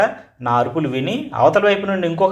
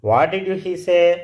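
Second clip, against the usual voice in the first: surprised; 5 semitones higher, much slower than usual. Acted. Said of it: "His mother was surprised and said".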